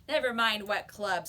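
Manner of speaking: put-on bully cutting off the boy's question; bully snapping. A narrator's reading. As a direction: shut him down hard. Bully snaps at John.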